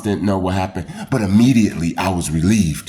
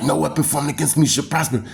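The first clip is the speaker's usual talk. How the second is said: fast, raised, firm declaration; strong declaration; 4 semitones higher, much faster than usual. Retold or imitated. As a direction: proclaim it fast now you've got your strength back. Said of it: "I got my strength".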